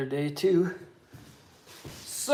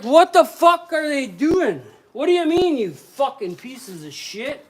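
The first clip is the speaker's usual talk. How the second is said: retold outrage; 8 semitones higher, 10 dB louder than usual. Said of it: "I was like".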